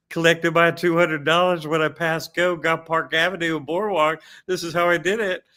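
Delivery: a wealthy British gent bragging about his winnings; British Monopoly guy. Retold or imitated. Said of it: "if the Monopoly guy was British".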